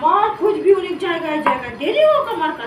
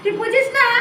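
scolding outburst; 4 semitones higher than usual. Acted. Goddess scolding man about young girl.

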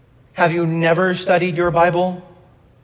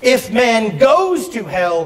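higher-pitched preacher quoting with emphasis; raised, emphatic pulpit delivery; Billy Graham; 4 semitones higher than usual. Retold or imitated. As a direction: lightly imitate an evangelist, pitch lifted. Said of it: "The Reverend Doctor Billy Graham once said this".

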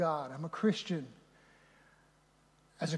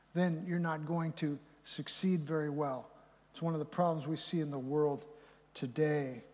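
ordinary talk

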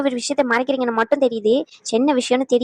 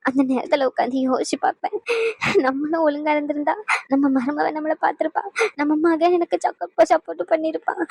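tearful regret; 2 semitones higher than usual. Acted. An elder regretting a lonely old age, tearful. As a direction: mourn your own mistakes through held-back tears.

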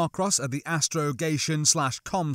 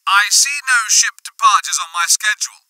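loud, higher, official radio voice; commander over comm; 6 semitones higher, 9 dB louder than usual. A narrator's reading. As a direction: challenge it firmly through a comm speaker. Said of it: "a new voice put in".

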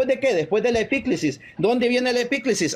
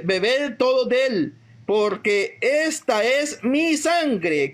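slow, deliberate reading of the Gospel; solemn scripture reading; 2 semitones higher, much slower than usual. Acted. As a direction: draw out each word of Christ. Reads the Gospel words solemnly. (lectura lenta y solemne del evangelio)

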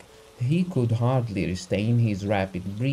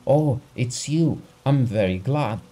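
a burst of relieved gladness; 4 semitones higher, 5 dB louder than usual. Acted. Stranger greeting the doctor, relieved and eager. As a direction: blurt it out, relieved to find him. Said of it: "in a tone of relief".

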